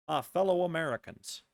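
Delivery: impression drifting from cowboy into a president; measured mock-presidential address; Obama. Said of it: "Now they're Obama".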